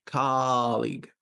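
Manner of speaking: "colleague" with a stretched KA, short league; long stressed first syllable. Shown as a demonstration. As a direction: draw out "colleague" as KAAH-lig. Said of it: "I make the ka long".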